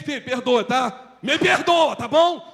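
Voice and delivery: lightly voiced pushy parent; impatient parent. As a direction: push the apology like an order.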